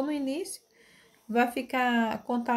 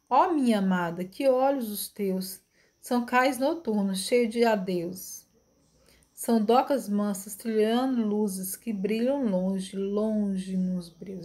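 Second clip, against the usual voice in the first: slow, measured verse reading; poem reading; 2 semitones lower, slower than usual. Acted. Teacher reading Vinícius's poem to the class, measured recitation. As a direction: read the verse unhurried, drawing out line ends.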